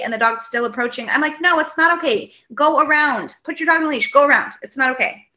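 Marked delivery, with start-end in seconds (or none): 1.4-5.2 retold scolding, pitched up and emphatic; firm scolding. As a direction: replay ordering someone off, indignantly. Retold argument with dog owner.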